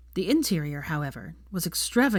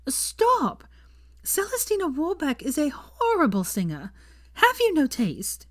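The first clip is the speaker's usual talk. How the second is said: put-on drunken scolding; 10 semitones higher, slower than usual. A narrator's reading.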